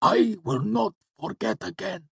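very high, strained promise; earnest gasp. A narrator's reading. Cinder promising his lord, gasping and earnest. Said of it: "he gasped out earnestly".

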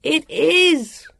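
high, emphatic shout; insistent high-pitched call. A narrator's reading. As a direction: call the confirmation out hard. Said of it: "Jonathan and Vivian both called".

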